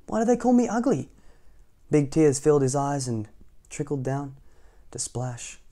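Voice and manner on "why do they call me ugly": a small, high, sad little wonder; sad duckling. A narrator's reading. The ugly duckling wonders why nobody plays, high and sad. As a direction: ask it like a lonely baby bird. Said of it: "he wondered sadly".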